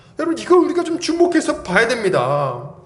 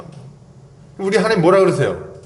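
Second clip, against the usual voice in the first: ordinary talk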